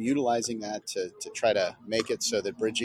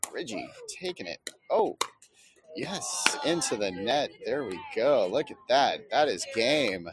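excited; 3 semitones higher than usual. Real, not acted. Winning point called live.

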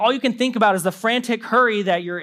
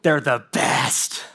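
much softer, slow dreamy sarcasm; mock doting; 9 semitones lower, 4 dB quieter, slower than usual. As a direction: sigh it out like a fake sweet thought. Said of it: "your first thoughts are like".

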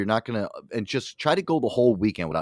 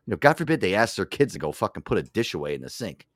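ordinary delivery

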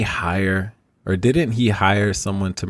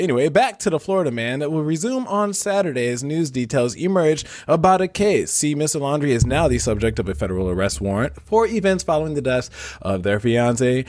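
news anchor voice; 3 semitones higher than usual. Pretend. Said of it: "give my best news anchor voice".

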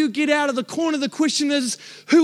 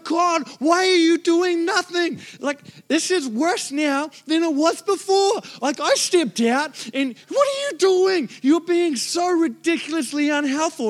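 raised, exasperated whine at God; frustrated complaint; 4 semitones higher than usual. Retold or imitated. Preacher retelling his complaint to God, exasperated. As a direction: complain like you've been let down.

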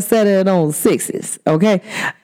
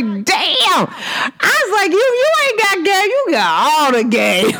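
high, laughing delight through the words; squeaky laughing disbelief; 12 semitones higher, slower than usual. Real, not acted. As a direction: giggle it out, tickled. Laughing high reaction to letter.

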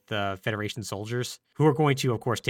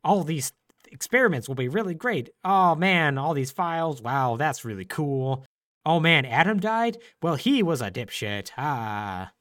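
mustache twirling villain; 2 semitones higher than usual. Retold or imitated. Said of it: "mustache twirling evil".

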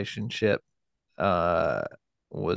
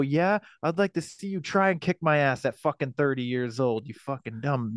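higher, defiant mock-angry comeback; retold defiant retort; 4 semitones higher than usual. Son retelling his comeback to his mother, defiant mock anger. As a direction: throw the retort back in defiance. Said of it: "And I go".

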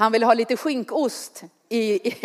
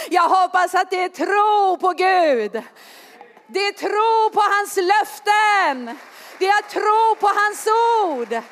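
preaching shout; 7 semitones higher than usual. Real, not acted. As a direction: lift the voice and proclaim faith in God. Sermon climax on faith.

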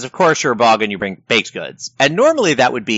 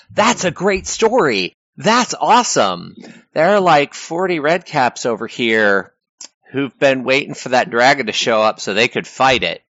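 excited group reaction; 2 semitones higher than usual. Retold or imitated. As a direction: gush like a crowd thrilled by a twist.

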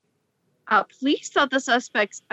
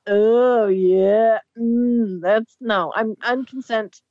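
imitating a drunk Wolverine; 4 dB louder, much slower than usual. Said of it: "he's all".

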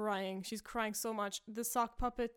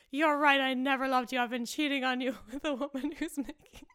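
much louder, laughing through the confession; hammed-up yell; 4 semitones higher, 9 dB louder than usual. Husband confessing cheating to wife, loud laughing yell. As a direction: bellow the betrayal, breaking into laughter. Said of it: "And he's like".

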